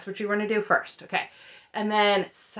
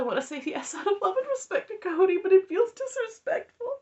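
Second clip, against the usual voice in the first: mocking Robin; 11 semitones higher than usual. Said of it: "She's like".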